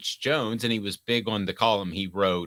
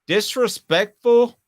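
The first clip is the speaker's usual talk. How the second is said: mock incredulous; 11 semitones higher, 6 dB louder, slower than usual. Host mock-echoes the question.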